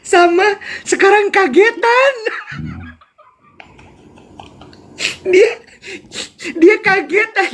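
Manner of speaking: tinggi dan keras, tertawa di sela kata; bicara sambil ngakak. Real, not acted. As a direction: tak bisa menahan tawa. (cerita sambil terpingkal-pingkal)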